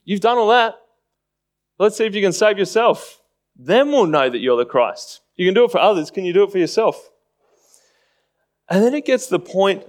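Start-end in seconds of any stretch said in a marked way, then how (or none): 0.0-7.1 mocking challenge. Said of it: "mocking tone ... in imitating this".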